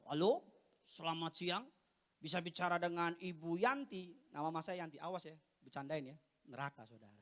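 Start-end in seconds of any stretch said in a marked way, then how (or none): 0.1-4.1 low-voiced prank caller with a formal manner; disguised phone voice. Son prank-calling his mother, disguised low voice. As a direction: drop the voice low, like an official caller. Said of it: "Saya suka ubah-ubah suara saya".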